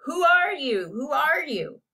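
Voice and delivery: high, loud demand; loud, high, repeated challenge; angry roar. A narrator's reading. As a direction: roar the question in outrage. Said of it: "Jeremy began to roar".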